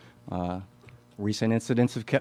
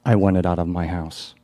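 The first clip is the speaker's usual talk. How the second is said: loud, firm, angry insistence; angry demand; 3 semitones lower, 7 dB louder than usual. Acted. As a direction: lay down the law to him. Acted demand in the play.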